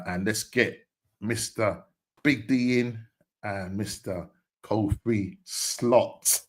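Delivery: slow, drawn-out guest introduction; announcer intro. Real, not acted. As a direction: stretch the names out like an announcer, pausing between them.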